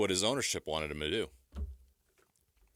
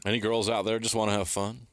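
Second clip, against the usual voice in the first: sing-song tease; 3 semitones higher than usual. Pretend. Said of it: "Oh, my gosh".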